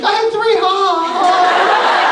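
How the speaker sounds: mom's high, loud boastful cackle; gloating mock laugh. Mom taunting her son with a mock laugh. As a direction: brag with a fake ha ha ha, high.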